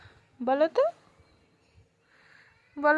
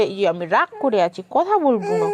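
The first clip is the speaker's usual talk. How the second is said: voicing baby's sulk; 4 semitones lower than usual. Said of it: "বলে".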